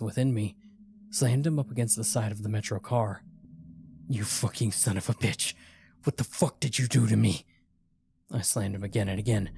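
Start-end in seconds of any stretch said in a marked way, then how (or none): 4.1-7.5 louder, furious accusation, rising as it goes; angry yell. A narrator's reading. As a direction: rage at him as you slam him. Furious attack on stranger.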